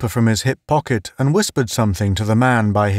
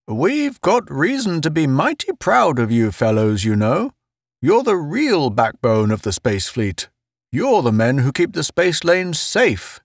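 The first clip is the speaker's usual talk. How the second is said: lightly voiced earnest pep talk; solemn Murchison; 6 semitones higher than usual. Murchison praising the outposters, solemn. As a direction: lift the pitch slightly for a solemn speech.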